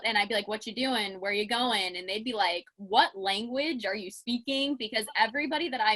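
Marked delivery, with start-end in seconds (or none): 0.5-2.0 lightly done Pittsburghese, words run together. Retold or imitated. Visitor slipping into hometown talk in Iowa, lightly Pittsburghese. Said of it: "like, Pittsburghese came out". 2.8-4.8 slow, over-careful imitation of formal speakers; mock puzzlement, each word spaced out; perfectly pronounced. Puzzled Iowans answering a visitor's slang, slow and perfectly pronounced. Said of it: "everything was perfectly pronounced".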